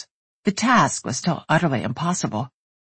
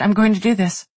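determined; 5 semitones higher than usual. A narrator's reading. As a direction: insist with forced confidence. Skylar insisting despite fear.

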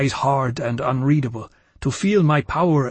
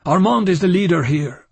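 louder, urgent outburst; bursting out; 4 semitones higher, 5 dB louder than usual. Acted. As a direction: blurt it out urgently. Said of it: "I burst out".

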